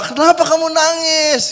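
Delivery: amused owner laughing at the crying pianist; laughing question. Retold or imitated. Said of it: "Dia ketawa".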